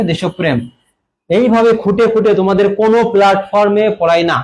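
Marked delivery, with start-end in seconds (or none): 0.0-0.6 "দেশপ্রেম" with an o after desh and doubled p; pronunciation demo. Shown as a demonstration. Teacher answers how the word is pronounced, demonstrated as desh-op-prem in "দেশপ্রেম". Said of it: "কি হবে?".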